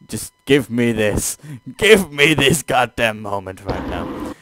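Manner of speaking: pleading outburst. Real, not acted. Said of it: "Don't ruin this moment".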